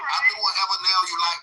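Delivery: Atlanta accent. Shown as a demonstration. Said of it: "put the Atlanta accent in it".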